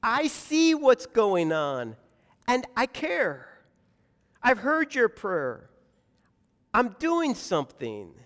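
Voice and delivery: firm, spaced-out divine reassurance; God answering. Acted. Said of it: "God says".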